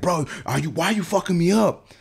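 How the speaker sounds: high-pitched imitation of an upset client; exasperated accusation. Client turns around a third time, exasperated accusation. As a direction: pitch climbing in indignant disbelief.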